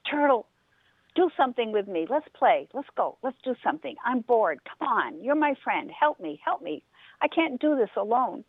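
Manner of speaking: a restless bunny begging his friend; pleading rabbit. Acted.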